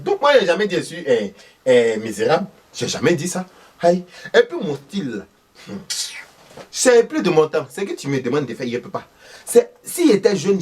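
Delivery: voix aiguë de vieille dame qui se défend; vieille maman vexée. Acted. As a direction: riposte piquée d'une mère au village. Thérèse répond au commentaire. (Thérèse répond au téléspectateur, voix aiguë vexée)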